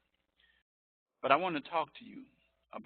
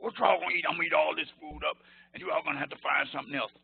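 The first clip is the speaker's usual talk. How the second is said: a lightly voiced big football player, higher and quick; imitating William Perry; 4 semitones higher, 4 dB louder, much faster than usual. Teacher imitating the Refrigerator at dinner, quick and higher. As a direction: rattle it off fast like a hungry lineman. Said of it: "this is how he talks".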